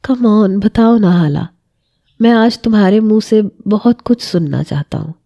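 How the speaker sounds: lightly voiced dreamy, love-drunk husband; mild, languid murmur; intoxicated tone. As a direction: coax her like a man lost in love. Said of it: "اس کے مخمور سے لہجے پہ".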